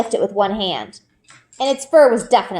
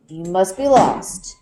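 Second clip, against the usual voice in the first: Papa, lightly voiced; 4 semitones lower, slower than usual. A narrator's reading. Papa soothing the lost wolf cub, lightly voiced and tender. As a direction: coax a lost cub kindly.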